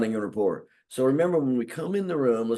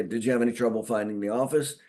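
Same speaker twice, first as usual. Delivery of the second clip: quick icebreaker; faster than usual. Shown as a demonstration. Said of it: "so we'll say".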